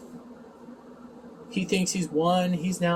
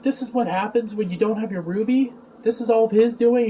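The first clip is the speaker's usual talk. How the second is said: lightly voiced, higher-pitched accuser; Fat Little Man; 6 semitones higher than usual. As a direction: imitate an indignant complainer, pitched up a little. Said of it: "Fat Little Man's like".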